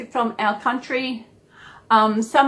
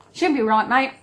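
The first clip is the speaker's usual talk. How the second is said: Aussie saying; 2 semitones higher than usual. Shown as a demonstration. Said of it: "That's what we say".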